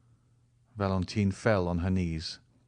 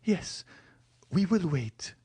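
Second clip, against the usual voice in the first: put-on higher, young woman reviving with hope; Valentine's voice; 9 semitones higher than usual. A narrator's reading. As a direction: answer him, brightening with hope. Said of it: "replied Valentine".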